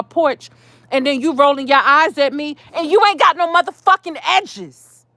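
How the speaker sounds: rising heat through a pretend rant at the neighbour; heated telling-off. Woman scolds the dog-owning neighbour, heated and rising. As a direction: let the anger build as if she's right there. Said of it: "'Cause, yeah, I'm heated".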